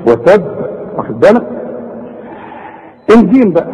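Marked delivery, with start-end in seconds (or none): 0.1-0.4 وتب with a held double ب and echoing release; strong qalqalah. Shown as a demonstration. Teacher making sure students notice, heavy bounce on وتب. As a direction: pop the final b of وتب. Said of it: "شوف".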